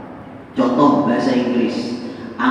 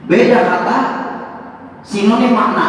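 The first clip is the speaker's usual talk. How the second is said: laughing definition; 9 semitones higher than usual. Shown as a demonstration. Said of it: "Ini kalau ada guru bahasa Indonesia".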